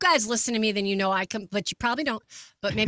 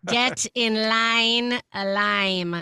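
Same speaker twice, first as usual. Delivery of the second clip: slow mock battle cry; much slower than usual. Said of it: "That's your battle cry right there".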